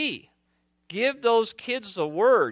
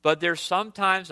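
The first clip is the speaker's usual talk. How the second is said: mock-warning with light sarcasm; sarcastic; 2 semitones higher than usual. Real, not acted. Pastor teasing the congregation about his children, lightly sarcastic. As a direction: lightly tease them with a supposed shock. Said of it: "I'm being sarcastic".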